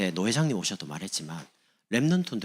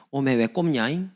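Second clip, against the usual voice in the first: slow, higher Jeolla question; Jeolla dialect; 4 semitones higher, 3 dB louder than usual. Acted. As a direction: imitate a Jeolla local with a stretched ending. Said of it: "전라도 사람". (길게 늘인 전라도 사투리로)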